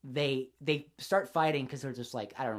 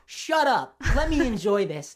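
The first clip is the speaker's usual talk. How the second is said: high, loud mock yell of a pervy guy; mock shout; 6 semitones higher, 5 dB louder, slower than usual. Friend retelling a movie creep's line, mock shouting. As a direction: bark it out like a kid caught ogling. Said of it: "And he's like".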